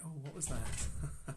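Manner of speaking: slow, wondering voice of a stranger; curious passer-by. Retold or imitated. Passer-by noticing the Spirit, slow curious wonder. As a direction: imitate someone puzzled as they pass. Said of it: "others, as they walk by, go".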